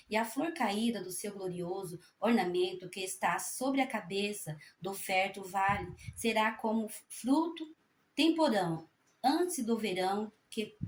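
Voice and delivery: slow, emphatic Bible reading; scripture reading aloud. Real, not acted. Reading Isaiah's warning to fellow believers, emphatic scripture reading. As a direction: proclaim the verses deliberately, leaning on key words.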